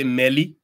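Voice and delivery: "Meli" with an l for r; village pronunciation. Shown as a demonstration. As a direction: say "Meli", not Mary. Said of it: "they say Meli".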